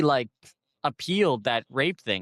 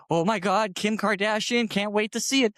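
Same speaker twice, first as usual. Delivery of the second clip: mock fan gush; 7 semitones higher than usual. Imagined fans gushing.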